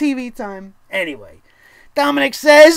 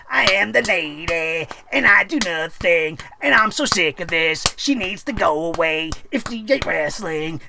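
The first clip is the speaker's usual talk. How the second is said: mock Lacey Evans persona; 6 semitones lower, 4 dB quieter than usual. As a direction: parody her self-important act, lightly voiced. Mocking a wrestler's persona.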